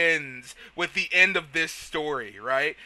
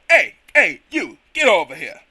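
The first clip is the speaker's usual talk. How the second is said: mock mob boss; 3 semitones lower, 5 dB louder than usual. Shown as a demonstration. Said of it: "that's not even a mob boss".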